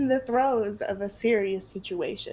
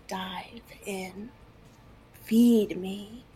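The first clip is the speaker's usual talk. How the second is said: monster voice; much slower than usual. Acted.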